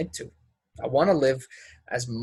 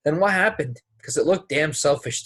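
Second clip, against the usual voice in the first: demanding; 3 semitones higher than usual. Acted. Accusing her in a quarrel.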